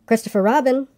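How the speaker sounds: high-pitched call to a friend below. A narrator's reading. Pooh calls to his friend below the tree, calling down. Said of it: "he called down to you again".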